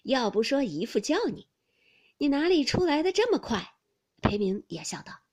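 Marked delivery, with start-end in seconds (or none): 0.0-3.8 amused gloating, growing higher and louder; loud playful taunt; gleeful teasing. A narrator's reading. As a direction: crow over a successful prank.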